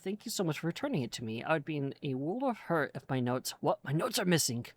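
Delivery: lightly voiced old dwarf explorer, chatty; a hint of a fussy old dwarf rambling on; lightly voiced dwarf NPC reading his quest; forgetful old dwarf.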